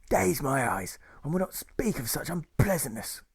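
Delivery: high, affected plummy figure voice; theatrical high-pitched nurse with old-chap airs; posh dashing nurse. Acted. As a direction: exclaim grandly, then confide in an affected high voice.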